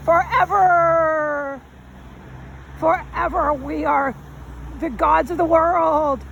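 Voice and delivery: slow, stretched mock pomp on forever; lightly hammed-up boast of eternal rule; mock grandiose drawl. Mocking the founders' smug certainty, slow mock grandeur.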